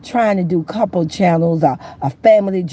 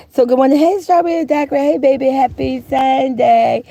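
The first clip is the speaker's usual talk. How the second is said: sing-song greeting; 4 semitones higher than usual. Real, not acted. Sing-song greeting to chat viewers.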